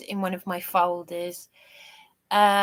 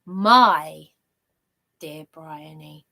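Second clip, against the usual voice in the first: heartfelt; 3 semitones lower, 6 dB louder, much slower than usual. Retold or imitated. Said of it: "how it speaks to someone's heart".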